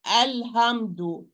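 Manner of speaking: alhamdu with a harsh rasped kha-like ha, slow; another wrong ha. Shown as a demonstration. Teacher giving students a second wrong version of alhamdu. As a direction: mispronounce the ha in alhamdu.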